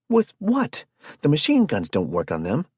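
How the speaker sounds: loud, very high panicked shout. Acted. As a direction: shout it in alarm. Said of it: "she shouted".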